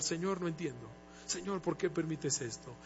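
soft, broken lament to God; tearful prayer. Retold or imitated. Husband retelling his prayer at the clinic, soft and tearful. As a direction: murmur a hurting prayer, softly. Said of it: "Comencé a llorar".

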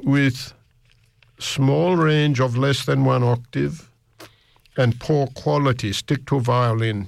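lightly voiced old aunt, slow and measured; slow, deliberate imitation of a singing teacher; old aunt's verdict. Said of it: "she said, this is an old aunt that lived in East Germany".

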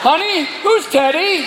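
slow, high, wary question; suspicious husband. Acted. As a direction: ask it slowly, suspicious. Husband asking wife.

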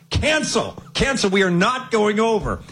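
high-pitched, emphatic abort call; mock cancel call. Host cancelling his own bet on air, mock-urgent.

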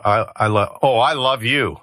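"oh, I love you" with a swooning lift on "oh"; halting start, then a fond sigh on "oh"; mock gushing declaration. Shown as a demonstration. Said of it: "I can go ... it's all how you say it".

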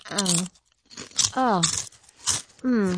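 pleasure moan. Real, not acted. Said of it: "quite a moan there".

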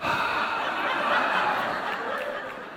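long, soft acted sigh; exasperated sigh. Passenger having a hard time, re-enacted long sigh. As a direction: let out a drawn-out breath.

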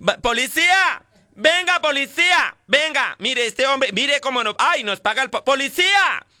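calling for the police. Retold or imitated.

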